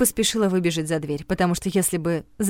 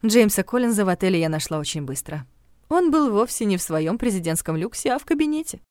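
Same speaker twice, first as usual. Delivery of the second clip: usual speaking voice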